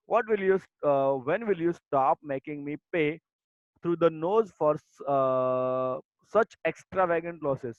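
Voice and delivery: slow, deliberate textbook reading; reading aloud. Acted. Teacher reading the lesson text to her students, slow and deliberate. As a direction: read each word out slowly for the class. Reads the English passage.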